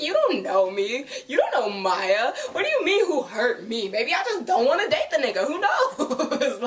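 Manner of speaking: a touch of sassy outrage; mock sassy rant. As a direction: defend yourself with playful attitude. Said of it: "I was like".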